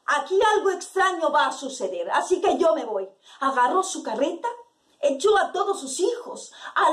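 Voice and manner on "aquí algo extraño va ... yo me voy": lightly acted macho declaration; macho neighbour. Neighbour declaring he will leave town, mildly macho. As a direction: announce it with a touch of swagger. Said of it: "Muy macho, así diciendo él".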